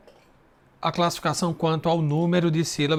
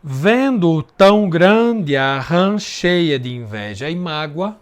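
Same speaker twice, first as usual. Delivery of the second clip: louder measured recitation; reading the verse; 3 dB louder than usual. Shown as a demonstration. Teacher rereading the first verse aloud, measured. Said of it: "Vamos fazer o segundo verso".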